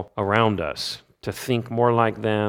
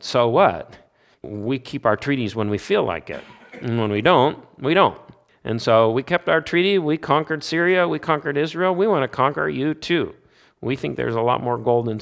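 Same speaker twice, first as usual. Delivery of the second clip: smug, loud and higher, mocking its own treaty; arrogant Assyria; 5 semitones higher, 4 dB louder than usual. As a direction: sneer like a boastful empire. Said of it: "Assyria said".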